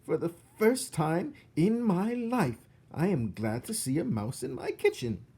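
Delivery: high, loud cackling cook; laughing cook. Acted. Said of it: "said Cook".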